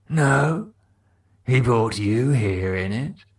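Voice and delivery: lightly voiced cockney, sly; Mark teasing. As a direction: drop the hint slyly.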